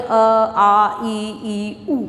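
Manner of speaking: low-pitched chant through the vowel list; children reciting letters. Retold or imitated. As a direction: mimic pupils counting up to the answer. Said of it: "तो कुछ बच्चे बोल रहे हैं".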